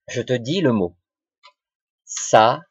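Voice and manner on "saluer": "Saluer" in three separate beats, sa, lu, é; sa... lu... é, each syllable on its own; split into syllables. Shown as a demonstration. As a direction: break "Saluer" into syllables with clear gaps. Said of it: "il faut qu'on coupe en syllabes".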